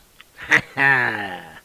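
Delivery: loud laugh trailing downward. Real, not acted. Host reacts to his own rescue story, laughing loudly. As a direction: let out a big laugh.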